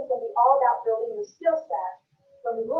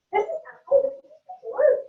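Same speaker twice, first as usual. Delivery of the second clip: alarmed brain; 11 semitones higher than usual. Acted. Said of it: "Your brain's like".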